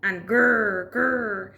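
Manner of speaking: playful snap and growl; mock alligator snapping. A narrator's reading. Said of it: "Alan went snap".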